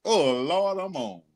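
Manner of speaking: put-on high, hesitant old auntie fumbling with a phone; confused older relative. Old relative on Facebook Live, asking "baby" how it works, high confused voice. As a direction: play the older relative who cannot work the live button.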